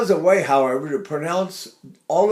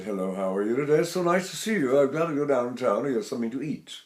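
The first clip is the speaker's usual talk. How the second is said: lower, softer, quick greeting; voice way down inside; 3 semitones lower, 4 dB quieter, faster than usual. Shown as a demonstration. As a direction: drop the voice down inside. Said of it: "Way down inside".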